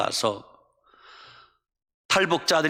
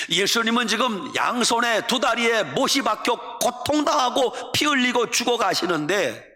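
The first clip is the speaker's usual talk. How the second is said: ordinary talk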